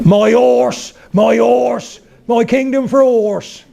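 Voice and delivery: high-pitched, hammed-up West Country Shakespeare; West Country accent. Shown as a demonstration. Coach showing actors Shakespeare on request, high West Country accent. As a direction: declaim it high in broad West Country, strong r's. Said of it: "what would Shakespeare have sounded like in the West Country".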